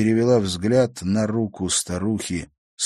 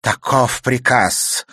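higher, louder, slow ominous crone; wicked old woman; 6 semitones higher, 6 dB louder than usual. Acted. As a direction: lay out the order with menace. Villain explaining coldly.

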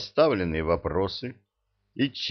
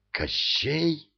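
gasping; 8 semitones higher than usual. A narrator's reading. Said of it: "ахнул Илья".

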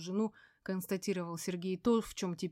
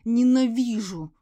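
Ненавижу! shouted much louder, higher and slow, falling; hateful shout; 4 semitones higher, 11 dB louder, slower than usual. A narrator's reading. Veronika screams Ненавижу! at her ex-husband, slow loud shout. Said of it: "выплюснула Вероника ... поток враждебности".

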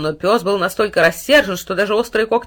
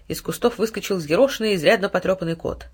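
usual speaking voice

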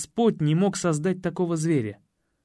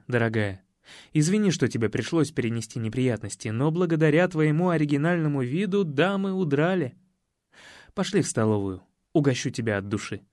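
tender to dog. Acted. Ваня ласково угощает собаку — тихий нежный голос. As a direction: coo to the dog.

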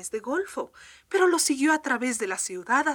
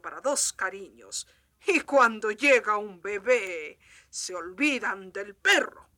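grand gentleman tone; 3 dB louder than usual. Acted. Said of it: "en tono de gran señor".

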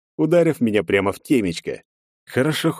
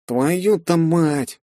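groaning; 9 semitones higher, much slower than usual. A narrator's reading. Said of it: "простонал Пофиг".

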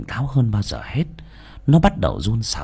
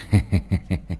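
smug chuckle; 2 semitones lower than usual. Acted. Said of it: "Hiếu cười cười".

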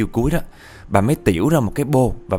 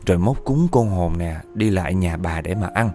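softened coaxing. Retold or imitated. Grandma lures spirit away with food, gentle coaxing. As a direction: coax the spirit to leave, easing off. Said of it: "nhẹ giọng xuống, kiểu dụ á".

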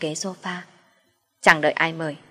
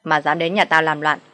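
stern, raised scolding voice; a mother-in-law berating an intruder, raised and stern; 4 dB louder than usual. Acted. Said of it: "mà quát".

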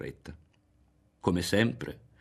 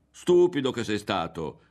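cheerful shout; 3 semitones higher, 6 dB louder than usual. Acted. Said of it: "gridò Berto lì sotto, animato, felice".

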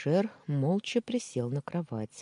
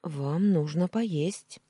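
cautious offer; 4 semitones higher, 4 dB louder, much slower than usual. Acted. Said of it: "осторожно предложила".

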